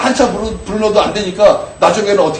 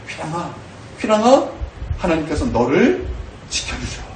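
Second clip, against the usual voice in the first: tender declaration. Shown as a demonstration. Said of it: "나의 영혼에 대해서 그렇게 나는 선포하는 거예요".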